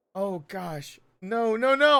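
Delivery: very slow, choked up, fighting back tears. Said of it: "I'm not crying over that".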